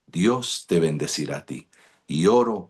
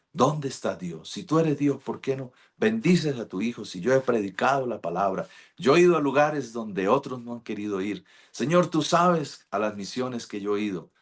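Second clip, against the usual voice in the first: higher, accusing complaint to God; angry at God; 4 semitones higher than usual. Retold or imitated. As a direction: demand answers from God, indignant. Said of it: "ya bravo con Dios".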